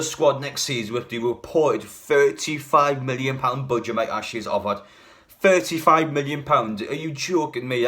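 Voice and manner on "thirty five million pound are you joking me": incredulous. Real, not acted. Reacting to the small transfer budget.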